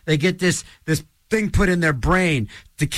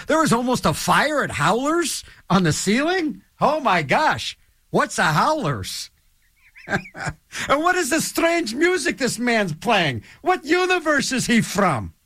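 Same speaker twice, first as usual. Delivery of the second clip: higher-pitched, hammed-up bafflement; mock astonishment; 5 semitones higher than usual. Future listeners puzzle over an old radio show, mock amazed. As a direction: marvel at it like a bewildered listener.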